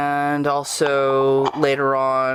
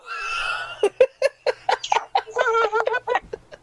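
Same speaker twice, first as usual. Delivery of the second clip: a burst of high laughter; real laughter breaking out. Real, not acted. Laughs after the joke.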